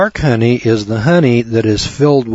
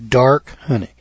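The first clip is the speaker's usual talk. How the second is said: "dark" set apart with weight, then "honey"; stress on DARK. Shown as a demonstration. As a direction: repeat with "dark" underlined. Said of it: "I'm gonna underline that word".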